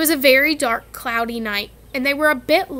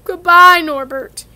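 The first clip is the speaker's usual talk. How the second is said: louder, choked goodbye; tearful farewell to a pet; sobbing farewell; 6 semitones higher, 10 dB louder, slower than usual. A narrator's reading. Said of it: "Hagrid sobbed".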